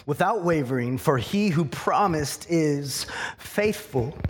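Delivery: unhurried scripture reading with weighty pauses; slow reading. Real, not acted. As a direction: read slowly, letting every word and phrase hang. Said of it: "I'm gonna read this slowly".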